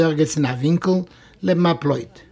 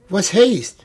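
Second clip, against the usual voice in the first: indignant; 2 semitones higher than usual. Acted. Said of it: "macht Fischke stark aufgebracht".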